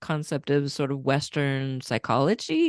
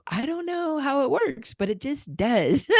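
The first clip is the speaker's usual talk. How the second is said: quoting Marcy; 9 semitones higher than usual. Retold or imitated. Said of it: "Marcy will tell them".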